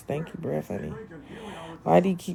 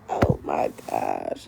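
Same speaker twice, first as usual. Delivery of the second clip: moved oh my gosh; much slower than usual. Retold or imitated. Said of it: "I was like".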